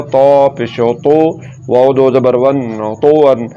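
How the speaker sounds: thick, rounded T in तौ and तो वन; emphatic Arabic T on तौ; heavy T. Shown as a demonstration. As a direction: spell out तो वन with a full-mouthed त. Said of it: "तो मोटा करके पढ़ेंगे".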